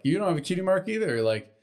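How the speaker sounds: high, fast snotty taunt; mock her like a bratty foal; high mocking filly voice. Acting out filly mockery.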